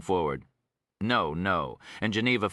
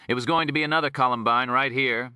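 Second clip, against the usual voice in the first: lazy drawl; 6 semitones higher, 5 dB louder than usual. Acted. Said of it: "in his lazy drawl".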